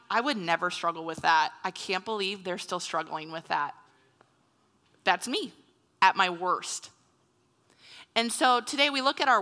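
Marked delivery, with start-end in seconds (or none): 0.1-3.7 low, hushed, mock-superior judgment; understated haughty disbelief; prideful disdain. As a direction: look down on them in a lowered voice. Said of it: "I've struggled with pride and being like".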